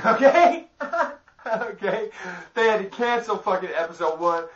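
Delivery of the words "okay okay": okay squeezed out through real laughter; can't stop laughing while asking okay. Real, not acted. Laughing at his own story.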